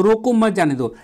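रोको as its own command, मत जाने दो in one go; pause after रोको. Shown as a demonstration. Teacher ordering someone held back, pause after रोको. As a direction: stop him: break after रोको, then मत जाने दो together. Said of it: "उसको मैं क्या बोल रहा हूँ".

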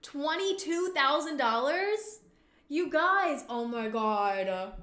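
very loud, high, slow amazement; stunned, ecstatic yelling at a jackpot; astonished shout. Real, not acted. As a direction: shout every word drawn out in delight. Big payout revealed in game.

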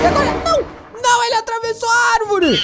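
sudden dismayed outburst; shocked alarm. Real, not acted. Alien passes through tree.

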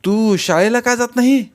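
coaxing affection. A narrator's reading. Boy fondly asks the girl about school, coaxing. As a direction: ask fondly in a lifted, eager voice. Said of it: "लाडं लाडं विचारलं".

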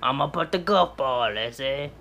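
goofy fake French; mock French accent. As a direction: keep up a bad French accent. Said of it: "that's how they talk there".

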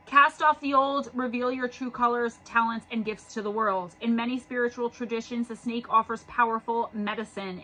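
measured guidebook reading voice; reading aloud. Acted. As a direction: read the card text aloud, evenly. Reads guidebook card text.

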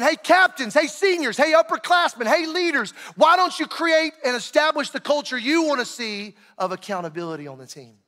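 coach calling out leaders. Retold or imitated. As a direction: call out each group, then let the last word fall. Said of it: "Coach is saying".

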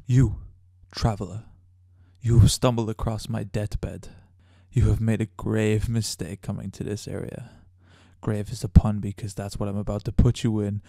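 slow, lightly acted evil spirit before effects; dry take of a menacing ghost, slowed down; raw ghost line. Shown as a demonstration. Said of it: "what the sound sounds like before we actually put any effects on it".

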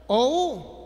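O U as two separate vowels; diphthong spelled out. Shown as a demonstration. Teacher answering which is the diphthong, O U distinctly separated. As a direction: sound out O, then U, distinctly. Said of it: "¿cuál es el di".

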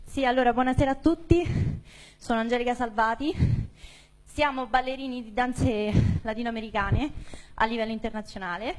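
out of breath after dancing; panting between phrases. Real, not acted. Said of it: "Scusate il fiatone".

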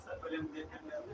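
whispered aside; student whispering to the teacher. Real, not acted. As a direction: hush it under the breath.

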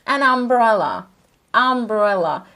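"umbrella" with the first vowel stretched; "umbrella" said slowly, vowel up front. Shown as a demonstration. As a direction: model the vowel start, slowly. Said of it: "Ne duyuyorsunuz".

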